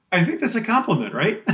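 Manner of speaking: said through a laugh; an amused, laughing question. Real, not acted. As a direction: laugh while you answer. Laughing reply to the joke.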